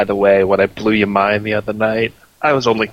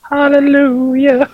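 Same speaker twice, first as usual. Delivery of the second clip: loud, slow hallelujah; rejoicing; 13 semitones higher, 5 dB louder, slower than usual. Pretend. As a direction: praise it like a revival. Joins the joke, rejoicing.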